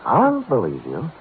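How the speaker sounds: high, eager plea to hold on; urgent protest. Acted. Detective halting a client about to leave, urgently. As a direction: cut in to keep them from going.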